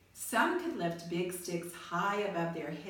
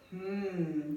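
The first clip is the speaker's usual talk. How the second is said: a slow considering hum; thoughtful hmm. A narrator's reading. Eli studying Punchinello's gray dots, thoughtful hum. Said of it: "the maker spoke thoughtfully".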